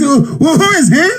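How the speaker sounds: lightly mocking a British official; mock puzzled official. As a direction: ask like you have never heard the name. Retold British official asking.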